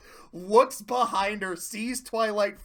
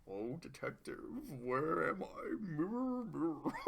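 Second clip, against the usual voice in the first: skit quote; 5 semitones lower, 12 dB quieter than usual. Retold or imitated. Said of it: "Key and Peele Funhouse skit".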